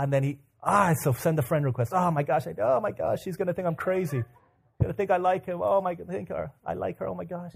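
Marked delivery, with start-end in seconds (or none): 1.9-7.5 acted panic. Fretting after sending friend request.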